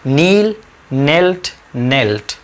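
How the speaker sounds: slow "नील, नेल्ट, नेल्ट", each starting on N; "नील, नेल्ट, नेल्ट" spaced out with the K silent. Shown as a demonstration. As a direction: drill "नील, नेल्ट, नेल्ट" slowly, no K sound. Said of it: "के silent है, please ध्यान दीजिएगा".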